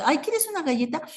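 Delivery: acted host offering a treat; chirpy offer. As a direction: offer it in a quick, high lilt. Acting out someone offering a cookie.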